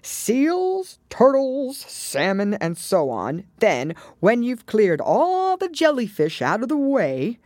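high, swooping list of creatures; eager turtle explaining with big swoops; excited Mock Turtle.

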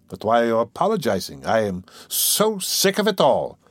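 mildly irritable, dragging out the weariness; exaggerated irritability. Raskolnikov cutting off his friend's apology, exaggerated irritability. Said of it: "cried with exaggerated irritability".

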